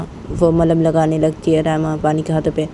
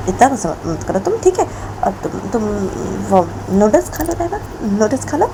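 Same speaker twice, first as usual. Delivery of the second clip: scared pleading; 3 semitones higher than usual. Acted. Bani scared, placating angry Raima.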